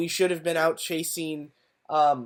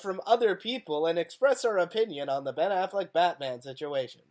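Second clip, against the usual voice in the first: polished news anchor read; newscaster voice. Acted. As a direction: announce it like a TV anchor. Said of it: "that's a nice newscaster voice".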